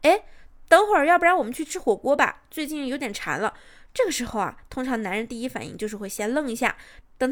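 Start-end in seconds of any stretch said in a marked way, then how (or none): 0.0-3.5 breezy casual suggestion. Shown as a demonstration. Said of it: "然后说上一句无关紧要的话".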